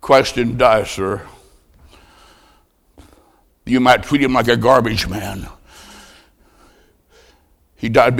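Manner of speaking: low, soft, with long pauses; hushed altar appeal. Acted. Preacher calling the congregation to prayer, hushed and solemn. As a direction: gently press it home, letting silence follow each sentence.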